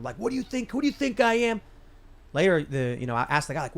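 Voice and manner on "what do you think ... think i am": pitched way up, indignant mock yell; imitating a yell. Friend yelling at the white dude over a burger request, mock indignant yell. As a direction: throw the insulted outburst back at him. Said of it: "he started yelling at him".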